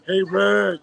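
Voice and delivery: calling out. Retold or imitated. Throwing the man's catcall back at him, mock calling out. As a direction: imitate someone hailing her. Re-enacts the same call-out.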